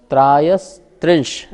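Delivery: त्रायस्त्रिंश carefully articulated as a single word; said as one word. Shown as a demonstration. Teacher shows where not to break, whole-word pronunciation. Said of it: "ये पूरा एक शब्द बोलना".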